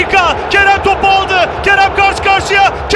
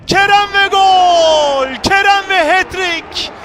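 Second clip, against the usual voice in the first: screaming football commentator; slower than usual. Real, not acted. Goal call, long drawn out.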